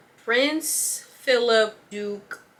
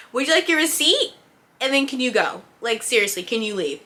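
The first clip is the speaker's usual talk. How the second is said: higher, louder sugary politeness; fake customer-service politeness; 4 semitones higher, 3 dB louder than usual. Cashier wanting the rude customer gone, forced sweet politeness. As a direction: smile through it, sweet but done. Cashier pushing him to leave.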